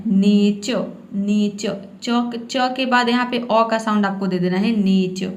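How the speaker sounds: नेचर ending in a plain अ, no r; English नेचर without the half r; nature with silent r. Shown as a demonstration. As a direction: say नेचर as नेचअ, dropping the r. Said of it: "आधा र नहीं बोलना है".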